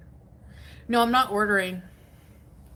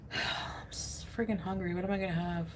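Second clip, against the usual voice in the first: hungry sigh; 6 dB quieter than usual. Real, not acted. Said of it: "friggin' hungry".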